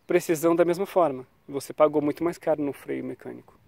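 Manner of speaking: ordinary talk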